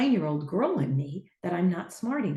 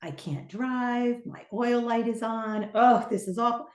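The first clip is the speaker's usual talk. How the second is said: slow, whiny mock despair over a warning light; dragged-out pretend wail of despair; mock crying; 3 semitones higher than usual. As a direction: ham up a pretend meltdown, drawn out. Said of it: "pull over to the side of the road and cry".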